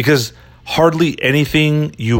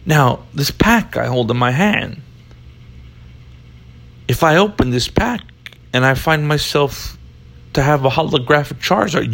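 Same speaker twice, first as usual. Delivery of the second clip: Italian Chicago cop; 5 semitones higher than usual. Pretend. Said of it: "worst cop impression ever".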